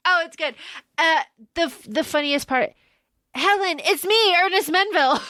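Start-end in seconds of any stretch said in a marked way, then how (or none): 3.3-5.2 mock-earnest phone introduction, pitched up; imitating Ernest Menville. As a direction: lightly play a man announcing himself. Acts Ernest's silly phone introduction.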